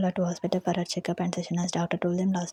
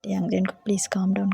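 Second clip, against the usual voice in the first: urgent plea; 6 dB louder, slower than usual. Acted. Pleading brother to calm down.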